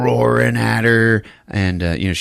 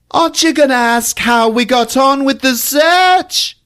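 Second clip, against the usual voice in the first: huffy sarcasm; 6 dB louder than usual. Retold or imitated. Mary scolding them for tossing the room, hammed-up huffy sarcasm. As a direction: sneer it like an offended aunt. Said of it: "Mary's voice".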